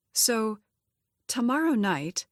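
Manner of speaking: woman nervously starting to ask a man out; nervous flutter. Acted. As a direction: get it out before the nerves win. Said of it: "feeling a flutter of nervousness".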